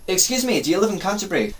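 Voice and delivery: high, polite put-on enquiry; put-on character. Lost traveller asking a woman, high put-on politeness. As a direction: play a politely pleading stranger. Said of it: "I like being different characters".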